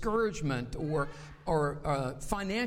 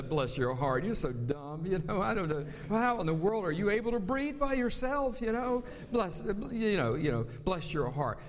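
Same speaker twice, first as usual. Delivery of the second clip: a mock-sweet Southern put-down; sarcastic Southern. Pastor imitating a Southerner insulting someone, mock-sweet and sarcastic. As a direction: say it sweetly but mean the insult. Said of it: "sometimes that can be said as a curse".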